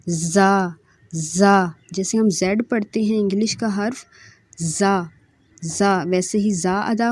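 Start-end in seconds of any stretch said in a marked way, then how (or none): 0.1-5.0 زا with a hissing buzz like English z; whistling z. Shown as a demonstration. Teacher showing whistle sound in زا. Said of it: "اس میں سیٹی کی آواز آئے گی".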